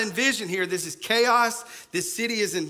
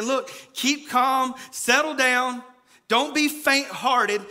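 slow, higher, louder pleading; urgent reassurance; 4 semitones higher, 3 dB louder, slower than usual. Retold or imitated. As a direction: press them to calm down. Urgent calming of the people.

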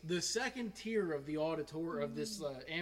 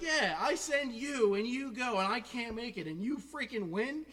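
high, loud, slowed mock outrage; comic indignant rant; incredulous teacher; 8 semitones higher, 7 dB louder than usual. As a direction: drag it out in exasperated disbelief, imitating the teacher. Teacher incredulous that his student won.

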